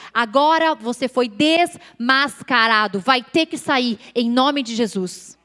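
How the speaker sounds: slow, deliberate retold rebuke; commanding rebuke. Woman orders the evil voice to leave, slow firm command. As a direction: order it out, word by heavy word. Ordena que o espírito maligno saia.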